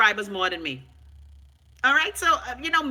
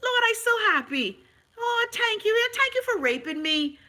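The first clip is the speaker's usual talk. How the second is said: mock ecstatic thanks; 9 semitones higher than usual. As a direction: squeal the thanks like a fake overjoyed believer.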